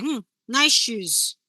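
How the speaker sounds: slow, drawn-out "nice shoes" with a loaded edge; backhanded compliment, slowly; sarcastic nice shoes. Shown as a demonstration. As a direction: let the subtext drip under the compliment. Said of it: "You give them the side eye".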